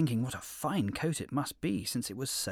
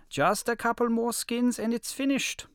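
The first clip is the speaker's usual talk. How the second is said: wolf voice; 12 semitones higher, 5 dB louder than usual. A narrator's reading. Wolf makes excuses.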